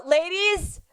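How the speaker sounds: slow, hushed, mock-ominous whisper. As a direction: whisper a dramatic warning, slowly. Mock-ominous warning to listeners.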